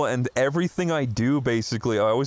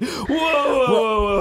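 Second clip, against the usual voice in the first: high, drawn-out mock shout; retold high-pitched holler of alarm; alarmed calming call; 8 semitones higher, 4 dB louder, much slower than usual. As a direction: call out to halt a fight, imitated. Retold friend stepping in.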